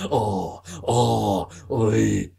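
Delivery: half-hearted go at aping him; lightly voiced impression of a guest; terrible impression of Peter. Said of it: "That's a terrible impression".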